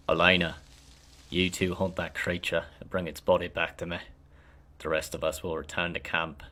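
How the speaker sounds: loud, high-pitched barked orders; commanding leader. Acted. Eldest ranger ordering the hunt, loud commanding voice. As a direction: give the order so no one dares question it.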